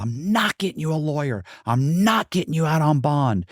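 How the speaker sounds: high-pitched, indignant imitation; adamant refusal. Partner refusing to pay for a lawyer, mock indignant.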